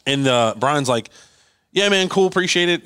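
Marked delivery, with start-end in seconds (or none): 1.7-2.8 higher-pitched, offhand imitation of a reply; breezy, noncommittal thanks, acted out; casual acknowledgement. Acting out Brian's casual reply.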